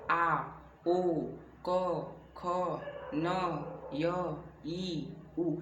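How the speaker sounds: आ, ओ, क, ख each voiced alone with a pause after; आ, ओ, क, ख, न, य, ई, उ as separate sounds; isolated letter sounds. Shown as a demonstration. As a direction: recite single sounds from आ to उ, one by one. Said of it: "क्या है, ध्वनियाँ हैं".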